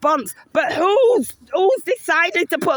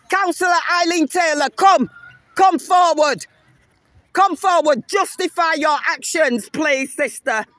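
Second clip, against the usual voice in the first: raised, demanding call to come forward; real calling out; 3 semitones higher than usual. Real, not acted. Calling out the councillor in public.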